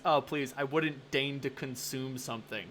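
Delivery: mock haughty disdain. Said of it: "the rejection he showed".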